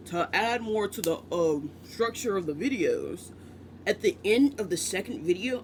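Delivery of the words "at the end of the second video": a faintly odd put-on voice, lightly done; a touch of a silly put-on voice. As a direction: slip into a goofy voice for a moment. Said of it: "I don't know why I'm doing this voice".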